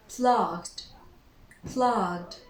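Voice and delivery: "plugged" in one syllable, ending G-D; careful "plugged", no E before the final D; silent E. Shown as a demonstration. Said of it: "We pronounce the G and then a D".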